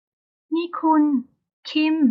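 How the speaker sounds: very slow, high call of protest. Acted. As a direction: wail his name to get his attention. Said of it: "ร้องโวยวาย". (ร้องเรียกโวยวายเสียงสูง)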